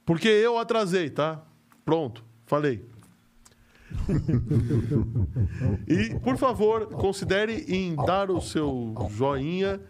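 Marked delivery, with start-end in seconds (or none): 3.9-5.8 deep, slow villain's chuckle; low evil cackle from the Oracle; sinister laugh. Acted. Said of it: "o Oráculo com essa risada sinistra".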